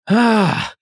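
high, drawn-out mock fury; hammed-up screaming outrage. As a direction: put on an act of being appalled. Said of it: "And he starts screaming".

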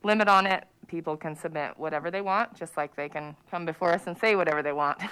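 muffled behind a mask; through a face mask. Real, not acted. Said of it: "She's speaking through a mask".

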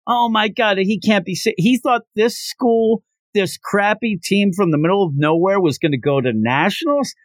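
high-pitched mock-incredulous jeering; mocking taunt. Winning team ridicules the losers' hopes of nationals, mocking. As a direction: act out a scornful, amused taunt. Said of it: "starts laughing ... they think that's the funniest thing".

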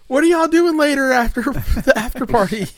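lightly voiced drunk girl, high and loud; playful imitation, breaking into a laugh; horny drunk girl. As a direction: call it out high, as a mock come-on. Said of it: "she's just being real fucking horny".

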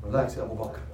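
softly soothing a friend; quiet, lightly acted reassurance; calming. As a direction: gently settle him down, unhurried with pauses. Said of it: "Calms him down".

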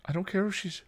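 high, pleading protest; tearful yelling back. A narrator's reading. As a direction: argue back through tears, breaking off. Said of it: "Dawn yelled back, tears spilling over".

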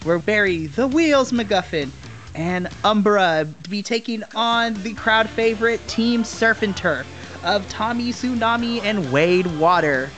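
hyped wrestling announcer read; ring announcer. Acted.

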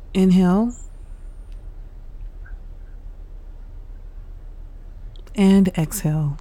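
unhurried meditation guide with long pauses; guided meditation. Real, not acted. Host guiding listeners through breathing and stretches, calm meditation delivery. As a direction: lead them calmly through each breath, leaving space.

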